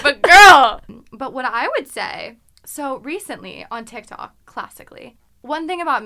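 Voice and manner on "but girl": high, booming exclamation; loud mock protest. Insisting to a modest friend she is hot, loud mock protest. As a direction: blurt it out in exasperated disbelief.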